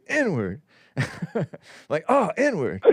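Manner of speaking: laughing through a mock curse. S1 acting out cursing at an ant, laughing. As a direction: say it as a joke, giggling. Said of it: "I would say".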